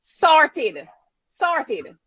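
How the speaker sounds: Copeland called out high and loud, then sorted dropping; eager host hailing the speaker; excited call-out. Real, not acted. Host cheers Copeland on the panel, excited call-out.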